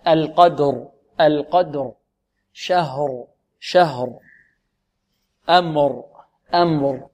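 القدر, شهر, أمر each ending on voiced ر; slow words, final r clearly sounded. Shown as a demonstration. Teacher correcting the students, voiced ر in القدر، شهر، أمر. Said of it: "أين الراء؟ لا".

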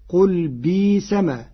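"بيس" said biis, no hamza, long i, slow; long vowel for hamza. Shown as a demonstration. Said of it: "بإبدال الهمز حرف مد".

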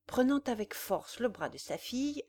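usual speaking voice

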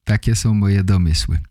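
ordinary talk, nothing marked

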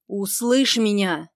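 медленно и громче, с нажимом; требовать, чтобы услышали; на повышенных тонах. Acted. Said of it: "говорит на повышенных тонах". (Ник на повышенных тонах перебивает героиню)

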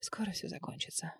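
soft unvoiced whisper to herself. A narrator's reading. Freezing woman reassuring herself, whispered. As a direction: breathe it out to calm yourself.

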